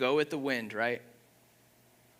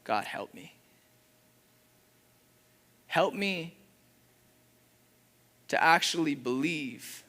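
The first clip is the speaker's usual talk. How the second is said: quoted prayer. Retold or imitated. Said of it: "it brings me to this place of".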